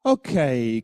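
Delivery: a loud, firm okay; firm loud call to stop. Shown as a demonstration. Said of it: "Slightly gentler".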